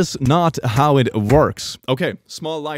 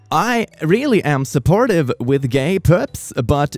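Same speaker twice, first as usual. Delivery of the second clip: higher, mock-sweet condescension; mock preachy; 5 semitones higher than usual. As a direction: read it out like a sanctimonious lecture. Reads out a post theatrically.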